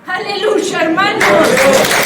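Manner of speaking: loud, ringing hallelujah; joyful shout. Real, not acted. Preacher rousing the brothers, shouting hallelujah. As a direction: lift the church with a shout of praise.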